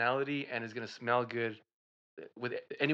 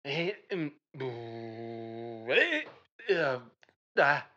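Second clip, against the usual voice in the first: caveman talk; 4 dB louder, much slower than usual. Acted. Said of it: "talking like a caveman".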